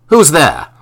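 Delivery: calls out loud and sharp into the dark. A narrator's reading. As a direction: demand an answer from the shadows. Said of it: "Marlowe asked once more".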